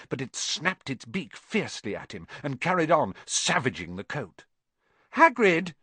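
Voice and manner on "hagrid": calling out loudly, higher; boy calling a sleeping giant awake. A narrator's reading. Harry calling Hagrid awake, loud and high. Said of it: "said Harry loudly".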